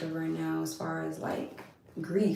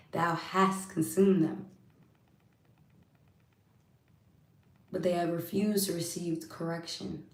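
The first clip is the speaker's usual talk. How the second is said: measured, weighty Bible reading; scripture reading. Acted. Reading scripture to live viewers, solemn recitation.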